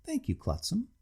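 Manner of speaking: put-on overly polite, slightly drunk; a touch of tipsy grandeur; tipsy civility. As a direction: lay on the politeness a little tipsy. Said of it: "exaggerated civility of slight intoxication".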